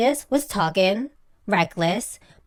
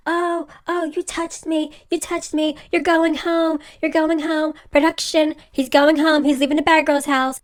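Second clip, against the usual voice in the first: imitating a worked-up man, high insistent repeats; high-pitched mock protest, each phrase repeated; mock outraged outburst; 6 semitones higher than usual. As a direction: mimic an indignant tantrum, pitched up. Acting out Michael's outburst.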